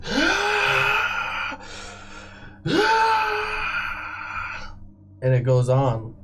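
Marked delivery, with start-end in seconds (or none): 0.1-4.8 two long, very high cries of pain; agonized scream. Acted. Tortured prisoner screaming while guards saw off his leg. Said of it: "He starts screaming".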